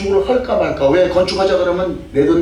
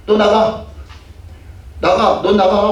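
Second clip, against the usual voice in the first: mock angry dismissal; 4 semitones higher, slower than usual. Retells expelling church members.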